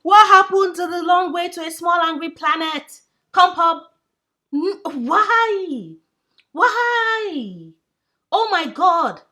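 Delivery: loud, high outcry of disbelief; dismayed shout. Real, not acted. Owner shouting at her cat in loud dismay. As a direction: wail at the cat for skipping the book.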